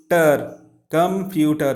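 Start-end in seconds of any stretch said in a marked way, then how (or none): 0.1-0.6 "ter" said alone as one beat; isolated syllable. Shown as a demonstration. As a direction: set "ter" apart as the last syllable. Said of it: "Three syllabic words".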